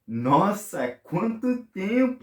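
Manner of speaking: slow astonished gasp of a greeting; surprised greeting. Acted. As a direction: act stunned to see an old friend.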